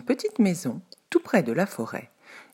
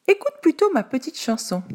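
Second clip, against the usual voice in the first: very high, loud squeak of alarm; tiny panicked voice; frightened little pancake; 12 semitones higher, 4 dB louder than usual. A narrator's reading. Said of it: "dit la galette".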